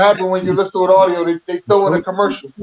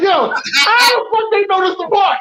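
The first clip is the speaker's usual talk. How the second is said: retold angry shout; 10 semitones higher than usual. Host reliving his anger at a podcast ad, shouting. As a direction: shout it up high like you're reliving the rage. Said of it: "I was mad as shit".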